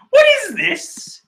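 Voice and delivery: high-pitched baffled question; incredulous. Real, not acted. Reader baffled by the title page, incredulous. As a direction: demand an answer in disbelief.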